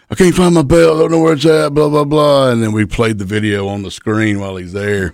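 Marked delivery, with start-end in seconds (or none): 0.1-2.5 high, whiny imitation of the champion; mock him fretting over the lost belt; mocking the whiner. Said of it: "he's all like".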